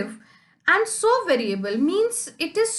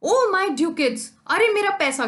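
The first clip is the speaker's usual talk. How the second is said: higher and louder lament for the money; mock wail; 6 semitones higher, 5 dB louder than usual. Teacher acts Shylock crying after his ducats, mock wail. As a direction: wail over the lost coins. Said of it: "चिल्ला रहा है".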